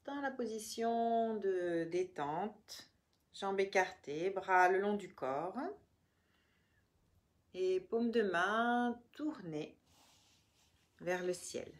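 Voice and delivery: measured meditation voice with long pauses between phrases; guided relaxation. Real, not acted. Yoga teacher guiding listeners through the body, calm guided relaxation.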